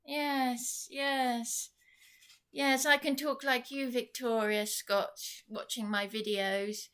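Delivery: high, mocking landlady impression; sarcastic landlady voice. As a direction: imitate her sarcastic sneer. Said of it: "This is how she talks".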